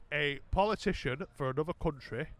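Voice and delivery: tipsy, loose explaining. Real, not acted. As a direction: explain it after a few drinks. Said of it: "explaining this while I'm pissed".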